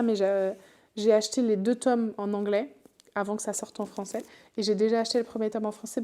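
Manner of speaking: normal talking voice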